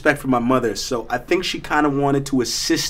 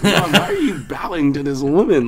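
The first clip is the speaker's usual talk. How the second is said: embarrassed laugh; 2 semitones higher than usual. Retold or imitated.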